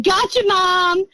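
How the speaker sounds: lightly voiced mischievous kid, slow; a sly little taunt from behind; teasing child voice. Mother imitating the phantom child teasing her: slow, sly.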